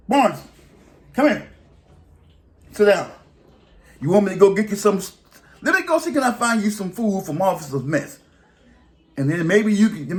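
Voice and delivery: high, friendly mock supervisor; a supervisor coaxing him to sit and eat; boss voice. Supervisor offering the inmate better food, in a high mock voice.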